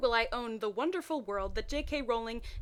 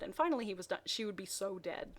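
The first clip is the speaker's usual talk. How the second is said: ordinary delivery, nothing marked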